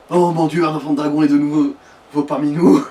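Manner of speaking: imitating a man crying out, somewhat loud; hammed-up bellow. Friend imagining a Halloween prank on Greybeards, mock bellowing. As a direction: proclaim it like a mock prophetic cry. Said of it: "et là, il gueule comme ça".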